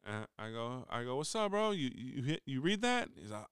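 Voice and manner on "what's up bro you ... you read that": bright high hallway greeting, pitched up; upbeat greeting. Retold or imitated. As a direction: call out to him like a buddy.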